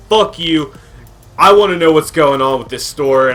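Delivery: mild mock yell of an irate caller; loud, irritated customer demanding answers; retold angry yelling. Irate customer yelling at store worker by phone, retold angry yelling. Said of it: "he's, like, screaming at me".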